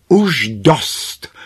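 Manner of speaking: loud, high exclamation; sharp cry out. A narrator's reading. Kráska calling a halt to her sisters' scolding, crying out. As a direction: cry out to make them stop. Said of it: "vzkřikla Kráska".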